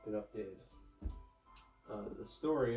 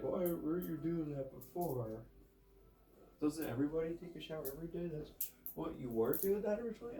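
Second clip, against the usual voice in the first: incredulous questioner; 5 semitones higher than usual. Pretend. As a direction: ask it like a baffled friend. Voices an imagined incredulous listener.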